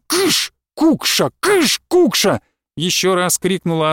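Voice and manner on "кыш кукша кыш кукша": very high, slow shooing cry; old woman shooing the lodger away; barking. A narrator's reading. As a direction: shoo her off like a bird. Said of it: "рявкнула".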